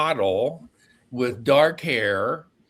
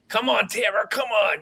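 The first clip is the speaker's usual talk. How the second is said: raised, higher, half-laughing plea; mock pleading; 8 semitones higher than usual. Begging his friend for a girl's number, playful raised plea. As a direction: beg her like a kid wanting candy.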